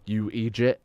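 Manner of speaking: lightly Irish "idiot", said as "eejit"; typecast Irish line. Retold or imitated. Player quoting a game character's typecast line, mild Irish accent. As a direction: quote it with a hint of Irish accent. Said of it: "very typecast lines".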